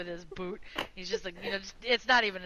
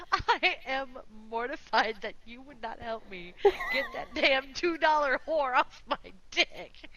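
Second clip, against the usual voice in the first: mock mortification; 4 semitones higher, slower than usual. Acted mock outrage as Gabe.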